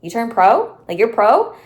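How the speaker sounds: lightly mock a puzzled questioner; confused disbelief. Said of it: "people always just look like, confused".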